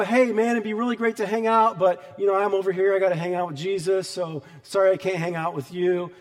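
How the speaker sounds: lightly acted buddy letting someone down easy; chummy, apologetic excuse to a pal; casual friendly brush-off. Turning away sin like a friend at the door, casual and friendly.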